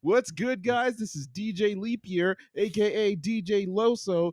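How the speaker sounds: high-pitched hype DJ patter; hammed-up radio jock intro. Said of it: "my radio D J voice".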